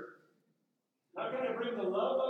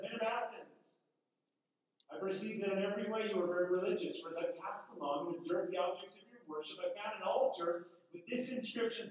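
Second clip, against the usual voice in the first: scripture reading. Acted. Paul's Areopagus speech read.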